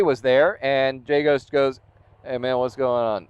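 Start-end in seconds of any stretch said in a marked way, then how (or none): 2.2-3.3 flat, expressionless hey man; a bored, toneless hello; monotone greeting. Retold or imitated. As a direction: greet him with no expression at all. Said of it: "In, like, the usual monotone, expressionless voice".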